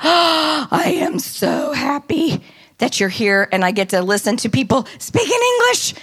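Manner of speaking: lightly voiced happy lady, rising high at the end; a hint of an overjoyed lady; delighted little lady. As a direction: gush with relief like a sweet old lady.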